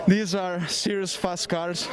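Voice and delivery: breathless after the race; talking between breaths, winded. Real, not acted. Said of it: "I'm out of breath".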